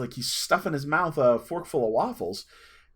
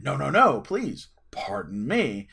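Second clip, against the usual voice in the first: loud nos, then slow, hushed pardon; mock-polite retort; 3 dB louder, slower than usual. Stranger takes the kid's bait, mock-polite. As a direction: play along, stretching out the courtesy. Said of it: "he took the bait and responded".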